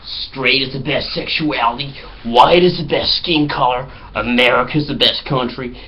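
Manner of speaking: hamming up a smug macho American; mock bigoted American guys. Friends pranking a bus as bigoted Americans, slow and smug. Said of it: "They were talking like".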